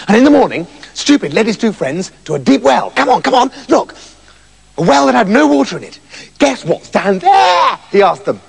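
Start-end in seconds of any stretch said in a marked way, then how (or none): 2.9-7.8 excited. Acted. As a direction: call them over with a hurry. Stupid excited at the well.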